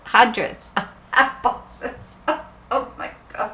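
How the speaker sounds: laughing disbelief. Real, not acted. Amazed at the hat boxes.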